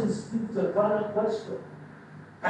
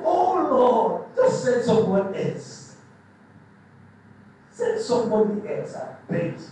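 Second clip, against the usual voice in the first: louder, begging plea that fades to an unvoiced "I beg you"; pleading Moses; 3 dB louder than usual. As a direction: beg God to send someone else. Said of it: "You know what he's saying?".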